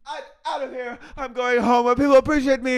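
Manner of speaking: high, huffy exit line; storming off. Pretend. Imagined star leaving the party, high huffy exit. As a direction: flounce out like an offended diva. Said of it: "he goes".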